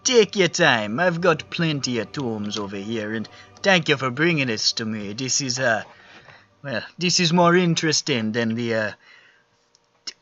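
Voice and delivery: put-on lively Jamaican-accented old librarian. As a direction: give it a Jamaican lilt. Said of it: "I really just wanted to do a Jamaican accent".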